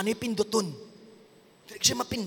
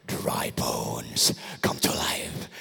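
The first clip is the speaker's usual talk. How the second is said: whisper; much slower than usual. Shown as a demonstration. Telling the problem what daddy said, whispered. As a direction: breathe it gently over the bones. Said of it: "Tell that situation".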